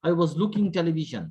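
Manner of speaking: slow, halting wrong sentence; mock student answer. Teacher mimics a student's broken answer, slow. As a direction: stumble through it like a nervous student. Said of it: "আপনি বলছেন".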